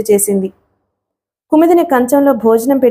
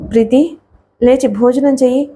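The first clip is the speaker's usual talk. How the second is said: plain reading voice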